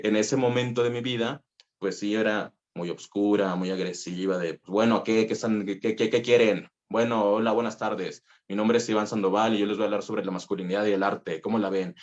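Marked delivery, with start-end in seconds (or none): 5.0-11.9 exaggerated, fast, pushy northern macho talk; aggressive macho voice. Shown as a demonstration. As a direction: play his old hard voice, hammed up. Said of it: "yo hablaba más o menos así".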